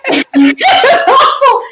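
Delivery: laughing. Real, not acted. Recalling the miserable biopsy, high slow laugh. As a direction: laugh through it slowly.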